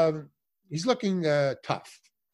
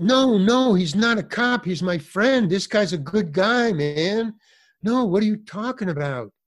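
louder, higher, frantic vouching for a friend; frantic pleading; 4 semitones higher, 4 dB louder than usual. Retold or imitated. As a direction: insist desperately he's not a cop.

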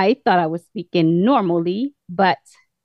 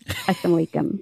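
British-sounding greeting; 3 semitones lower, 6 dB quieter, much faster than usual. Real, not acted. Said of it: "You should have been talking like that".

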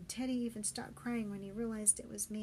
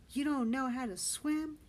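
incredulous; 4 semitones higher, 6 dB louder than usual. Acted. Benny retorts to scared friend.

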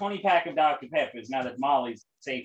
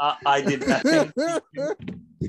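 laughing; 7 semitones higher than usual. Real, not acted. Protesting while laughing.

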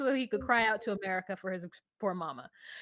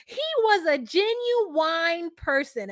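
slow, higher, drawn-out impression; imitated gushing woman; 5 semitones higher, 4 dB louder, much slower than usual. Quoting a mother about her young boyfriend, imitated gushing. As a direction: stretch it out, louder on the opening. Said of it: "she said it such a way".

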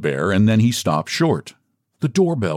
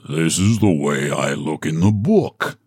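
a hint of a lower bear voice; lightly voiced bear; 5 semitones lower than usual. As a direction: bear showing the children how he looks in the book, lightly voiced. Bear shows off.

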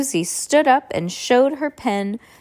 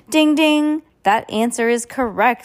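louder game show host; 3 semitones higher, 4 dB louder than usual. Acted. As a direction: announce like a host. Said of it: "sounding like a game show host".

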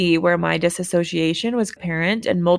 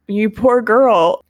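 pitying friends; 4 semitones higher, 6 dB louder, slower than usual. Retold or imitated. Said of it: "staring at me with such".

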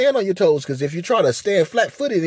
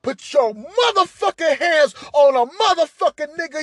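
mock furious scolding; 8 semitones higher than usual. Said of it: "I told her".

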